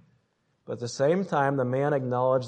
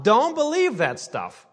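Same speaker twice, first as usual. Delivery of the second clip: high, slow, taunting inner voice; old man crying out; 10 semitones higher, 5 dB louder than usual. Acted. The old sinful self calling out to the believer, high and taunting. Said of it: "he's just crying out".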